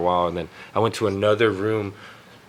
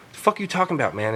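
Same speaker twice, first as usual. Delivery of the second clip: higher-pitched irritated comeback; pissed off; 5 semitones higher, faster than usual. Retold or imitated. Accused roommate answering his friend, pissed off. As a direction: imitate an annoyed, defensive friend. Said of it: "turns around and pissed".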